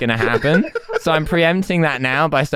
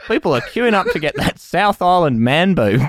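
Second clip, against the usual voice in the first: laughing through a mock Kiwi accent; bad New Zealand accent, half laughing; 4 semitones higher than usual. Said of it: "vape name in a New Zealand accent".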